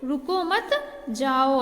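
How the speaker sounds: group रुको मत, pause, land firmly on जाओ; pause after मत. Shown as a demonstration. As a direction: gap before a falling, emphatic जाओ. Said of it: "तो इसे हम क्या कहेंगे".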